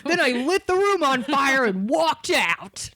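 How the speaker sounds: laughing through the words, slow. Real, not acted. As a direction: giggle while telling the joke. Joking exaggeration, laughing.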